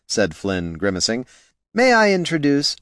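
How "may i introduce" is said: high gnome voice. Acted. Flynn formal introduction.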